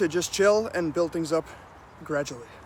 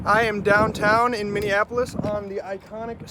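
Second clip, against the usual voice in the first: talking outdoors in gusty wind; wind on mic; 2 semitones higher than usual. Real, not acted. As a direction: wind buffeting the microphone. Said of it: "Excuse the wind noise if there is any".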